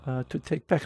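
put-on a light Italian accent, soft and slow; wheedling Italian stranger asking for an iPad. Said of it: "am I allowed to do an Italian accent?".

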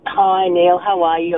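hoarse, croaky voice; speaking through a croaky throat. Real, not acted. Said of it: "I've got a bit of a croaky voice".

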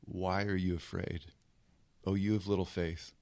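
low, hushed question; quiet rebuke. Acted. Jesus gently facing his frightened disciples, quiet low rebuke. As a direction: drop the voice and ask it softly. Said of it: "looks him in the face and says this".

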